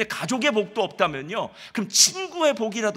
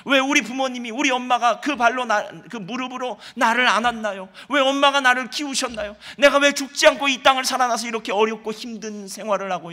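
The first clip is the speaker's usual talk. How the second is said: raised, louder mock lament to God; 4 semitones higher, 5 dB louder than usual. Preacher voicing Job cursing his birth, anguished lament. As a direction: cry out to God in complaint, a little higher and louder. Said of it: "이렇게 한탄하더라는 거예요".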